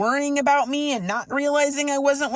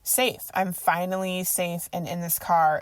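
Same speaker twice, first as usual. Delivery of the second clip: low, slow, soft relief; understated, quiet sense of finally being safe; retold relief; 4 semitones lower, 4 dB quieter than usual. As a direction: let the relief settle in, voice sinking. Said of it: "had this whole thing of relief".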